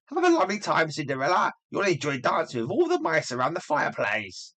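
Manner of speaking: high, mocking sisterly sneer; taunting stepsister. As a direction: jeer at her with a sing-song lilt.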